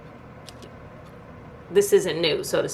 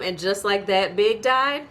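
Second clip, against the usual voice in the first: incredulous echo; 2 semitones higher, slower than usual. Retold or imitated. Echoing Carrie's line in shocked disbelief. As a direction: throw it back at her, stunned. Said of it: "Really, ma'am?".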